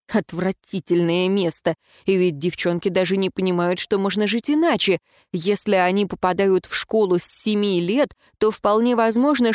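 normal talking voice

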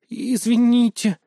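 high, slow little squeak; guilty girl squeaking sorry. A narrator's reading. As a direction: squeak out a small apology. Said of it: "пискнула Злотникова".

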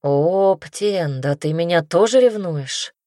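usual speaking voice

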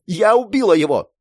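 high, grief-filled outburst; anguished wail. A narrator's reading. Girl confesses killing her friend, anguished high wail. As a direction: cry out with hatred and sorrow. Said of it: "завопила она голосом, полным ненависти и горя".

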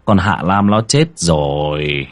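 husband gently comforting his grieving wife; consoling. A narrator's reading. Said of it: "Ông Vương an ủi vợ".

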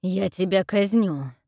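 slow loud threat; king threatening execution. Acted. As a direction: bellow the threat slowly. King threatening, nose broken.

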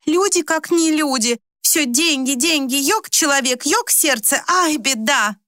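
high, plaintive broken Russian; lamenting young Turks. Acted. The young men scold the foreigner, high and lamenting. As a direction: wail that people only want money.

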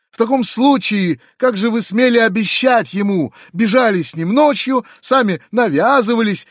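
choking with rage. Acted. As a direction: spit out the accusations in fury. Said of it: "задыхаясь от злости".

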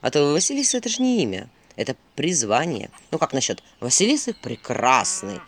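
lightly voiced owl, pitched low; teasing owl. Owl questions Vasilisa's name, mildly teasing. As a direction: needle her about the name.

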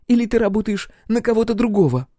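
voiced girl, lightly taunting; high girl's voice, taunting. Captain presses Roxy, high girl's voice.

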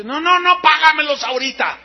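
angry demand. Retold or imitated. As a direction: bark the demand at the compadre like a furious creditor. Creditor demands money from compadre.

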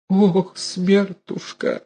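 high, drawn-out slow moan; wailing old mother. A narrator's reading. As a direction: moan out the death fear. (протяжный высокий стон старухи)

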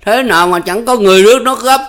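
mock his own fate; giọng mỉa mai cay đắng; bitter sarcasm. A narrator's reading. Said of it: "cười khan".

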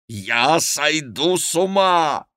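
high, drawn-out cry of despair; weeping with rage. A narrator's reading. Schomberg tears at himself, raging tearful cry. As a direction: wail it slowly, beside yourself. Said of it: "Он даже плакал от ярости".

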